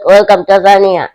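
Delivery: lightly hammed-up welcome for a visiting tourist; mock tourist greeter. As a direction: greet him like a tour guide, teasing. Mocking ref as welcomed tourist.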